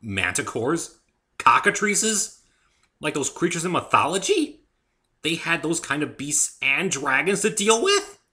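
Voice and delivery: a touch of panic in the thoughts; alarmed. A narrator's reading. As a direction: rattle off the worries. Narrator's alarmed inner thoughts.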